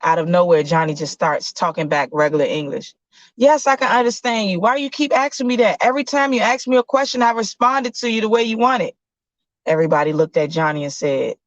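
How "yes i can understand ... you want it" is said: put-on annoyed kid. Johnny protesting doctor.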